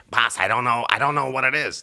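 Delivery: a lightly voiced nervous director; a hint of a flustered Kevin answering the boss. Director Kevin tells the boss he doesn't know. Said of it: "That's my Kevin voice".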